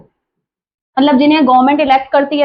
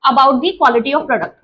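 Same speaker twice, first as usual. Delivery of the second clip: slow dictation; 2 semitones lower, much slower than usual. Shown as a demonstration. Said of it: "teacher dictating slowly".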